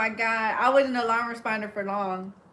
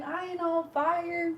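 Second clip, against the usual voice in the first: mock angry drunk; 6 semitones higher, 5 dB quieter than usual. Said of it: "He was so pissed".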